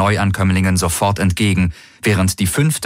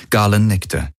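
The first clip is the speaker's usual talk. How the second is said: usual speaking voice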